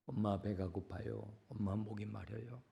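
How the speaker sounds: put-on a soft, weak child's plea; faint dying child. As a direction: voice a starving child, barely heard. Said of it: "죽어가는 그 신음하는 작은 소리".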